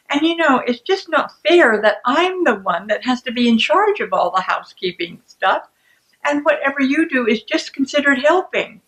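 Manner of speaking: indignant, lecturing comeback; defensive. Acted. First person hits back about the dishwasher, defensive. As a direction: argue your case with pointed, rising emphasis. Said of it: "that person's defensiveness then triggers defensiveness".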